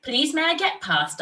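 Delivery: put-on high, begging little girl; girl begs the snake politely. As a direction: beg the snake to let you pass. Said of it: "I begged".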